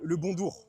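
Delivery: "bonjour" with the j hardened into a d, like "bondour"; Chinese-accent mispronunciation. Shown as a demonstration. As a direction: say "bonjour" as "bon-dour", without putting on a full accent. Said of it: "bonjour avec l'accent chinois".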